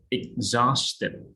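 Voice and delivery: "Exhausted" with a Z sound after the first syllable. Shown as a demonstration. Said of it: "it is a Z sound".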